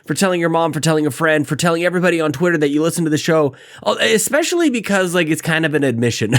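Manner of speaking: hoarse, under-the-weather voice; talking through a bad cold; sick voice. Real, not acted. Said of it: "you guys can hear it. / I sound as terrible as I feel".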